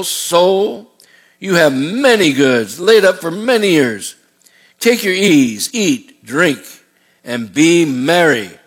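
slow, savoring rich farmer musing to himself; lightly voiced rich man. Pastor voicing the greedy rich man in Jesus' parable, slow and smug. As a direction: draw out his smug plans, a hint of greed.

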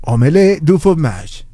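slow "Omelette du fromage" with a French accent; the co-host shows the caller the line with full accent. Shown as a demonstration. Slow French accent demo. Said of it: "con toda la intención y con todo el acento".

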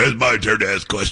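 mock tough guy; Dick Durbin. Host mimicking the senator demanding his turn, mock tough. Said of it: "He's such a tough guy".

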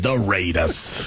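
Chris Berman impression. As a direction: boom it out like an old-school highlights host. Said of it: "Does Chris Berman say it?".

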